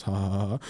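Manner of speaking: low, deliberate fake chuckle; mock laugh. Capping a sales-call joke for a student, mock laugh. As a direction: imitate your own joking laugh. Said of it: "I make a joke".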